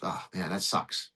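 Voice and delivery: slow, low, deadpan mock sympathy; lightly voiced lawyers faking indifference; flat sarcastic sigh. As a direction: drag it out like it's no big deal. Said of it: "we're like".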